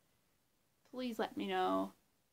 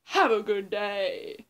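louder, slow sign-off; Jeff Music Man impression; 2 semitones lower, 10 dB louder, slower than usual. Impersonating Jeff signing off to viewers, slow loud farewell. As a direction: drag out a big loud goodbye. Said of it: "that was my impression of Jeff Music Man".

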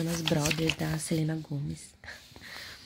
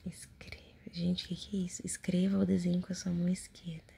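whispering. Acted. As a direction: whisper it right in the ear. Reads diary prompts in whisper.

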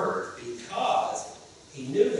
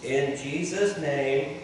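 leading prayer; 4 dB louder, slower than usual. Shown as a demonstration. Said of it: "everyone repeat after me".

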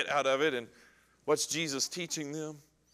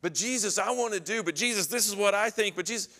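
higher-pitched, insistent objecting; mock protesting; 5 semitones higher, faster than usual. Disciple keeps arguing with Jesus, mock protesting. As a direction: play a disciple butting in with objections.

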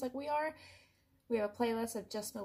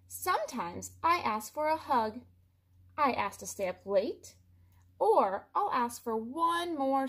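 lightly voiced, bragging cartoon pigeon; a mildly hammed-up pigeon, puffed up and proud; boastful pigeon; 3 semitones higher, 6 dB louder than usual. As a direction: list it off like a show-off bird. Pigeon's long boastful rant.

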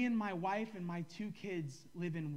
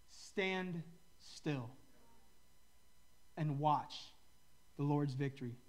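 calm scripture reading; 4 semitones lower than usual. Acted. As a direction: read the promise gently. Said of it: "It says".

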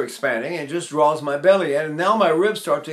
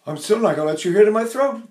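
ordinary talk, nothing marked

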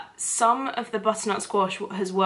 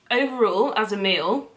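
mouth full; 3 dB louder than usual. Real, not acted. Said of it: "let me stop talking my mouth full".

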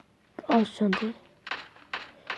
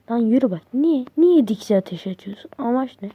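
louder, exasperated at the teammate; scolding; 2 semitones higher, 5 dB louder than usual. Real, not acted. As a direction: tell him off for shooting. (takım arkadaşını azarlayarak)

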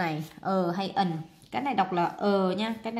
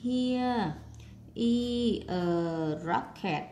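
word by word dictation; 2 semitones higher, much slower than usual. Shown as a demonstration. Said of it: "viết này nè".

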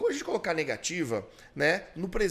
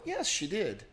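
gentle yes; much slower than usual. Shown as a demonstration. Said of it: "pra ser um yes mais tranquilo".

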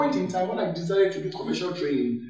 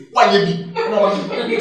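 laughing mock anger; 6 semitones higher, 7 dB louder, faster than usual. Acting angry reply then refusing.

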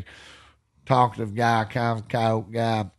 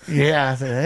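normal talking voice

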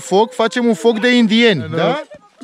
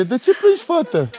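gentle asking; 3 semitones higher than usual. Real, not acted. Dad gently asks his crying daughter why she cries. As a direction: ask her kindly why she's crying.

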